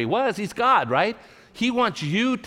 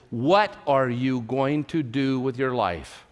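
slow inner question; 3 semitones lower, slower than usual. Retold or imitated. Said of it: "the question that kept going over".

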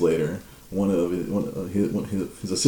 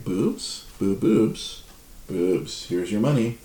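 dazed mock Jai; much slower than usual. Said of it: "And Jai's like".

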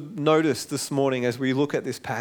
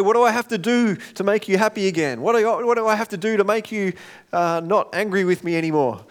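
higher, insistent appeal; mock pleading; 5 semitones higher, 3 dB louder than usual. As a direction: plead it with mild exasperation. Acting out pleading with upset spouse.

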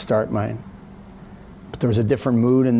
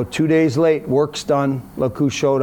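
a sarcastic "look who finally showed up"; sarcastic greeting; 4 semitones higher, slower than usual. Retold or imitated. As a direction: needle the late doctor. Sarcastic jab at late doctor.

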